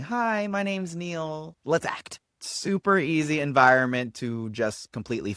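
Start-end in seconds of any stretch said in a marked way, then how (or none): 0.0-2.2 high, drawn-out audition greeting; auditioner's greeting. Acted. Actor greeting the audition room, high drawn-out introduction. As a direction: play an actor introducing himself, pitched up. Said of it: "walking into the room most of the time going".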